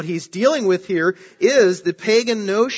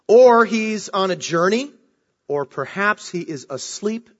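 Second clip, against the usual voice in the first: mocking taunt; 3 semitones higher than usual. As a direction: taunt them like Elijah mocking false prophets. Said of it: "Elijah mocked them".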